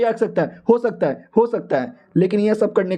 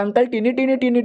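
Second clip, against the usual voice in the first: put-on higher, sing-song baby babble; demon baby voice; 5 semitones higher than usual. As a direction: tease the old man like a tiny demon. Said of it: "बच्चा भी कहता".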